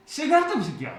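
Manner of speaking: half-joking barracks yell; mock angry yell. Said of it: "가지고". (장난스럽게 흉내 낸 고함)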